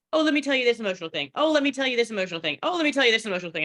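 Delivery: fast, chattering mock gush; mock oversharing friend. Friends unloading emotional stories on her, fast mock gushing. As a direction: rattle it off like a friend who overshares. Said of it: "friends that come to me who are like".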